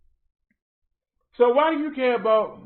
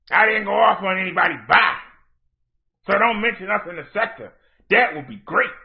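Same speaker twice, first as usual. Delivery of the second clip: mock curt. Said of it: "That's how you sound".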